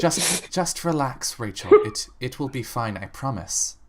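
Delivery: calm her down, promise it's fine; reassuring. Acted. Calming a fainting girl.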